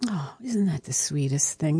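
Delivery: soft unvoiced whisper of delight; hushed and touched. Friend answering the lawyer about the will, whispered. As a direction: breathe it out, moved.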